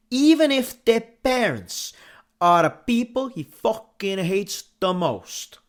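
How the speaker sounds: put-on movie blurb in a French accent. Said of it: "that was a really good French accent".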